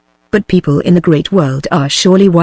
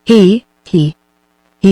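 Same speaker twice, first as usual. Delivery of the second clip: grin and snarl out a little he-he; mock snarl laugh through bared teeth; slower than usual. A narrator's reading. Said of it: "My lord snarled a grin".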